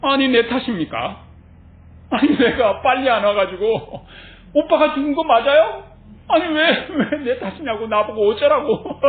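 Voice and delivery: 억울한 척 목소리를 올려 따지듯; 내 탓이냐며 발끈하는 시늉. Pretend. 예수가 억울해 따지는 가상 대꾸. (장난스레 과장한 항변)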